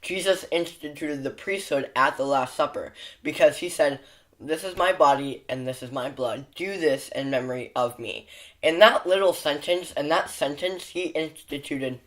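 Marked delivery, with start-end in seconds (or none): 4.4-12.0 slight lisp from a retainer; wearing a retainer. Real, not acted. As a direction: talk around a retainer. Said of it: "the list is still here".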